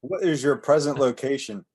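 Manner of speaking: Coast Guard radio operator. Pretend. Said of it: "be the Coast Guard".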